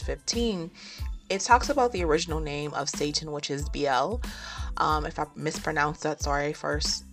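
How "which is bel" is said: usual speaking voice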